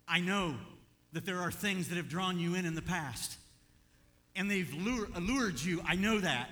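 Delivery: put-on rally a fallen child with forceful, punched phrases; impassioned urging father. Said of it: "It's a father that says".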